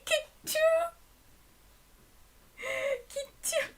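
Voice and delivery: helpless laughter, very high; high, squeaky with laughter; laughing. Real, not acted. Laughing at translation.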